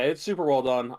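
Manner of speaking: normal talking voice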